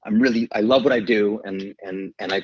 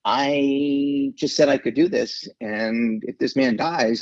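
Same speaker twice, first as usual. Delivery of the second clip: frightened inner thought; 3 semitones higher, much slower than usual. Retold or imitated. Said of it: "And I thought".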